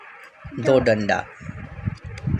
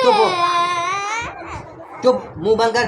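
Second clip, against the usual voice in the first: loud firm commands to hush him; stern scolding; 7 dB louder than usual. Real, not acted. Father scolds crying child.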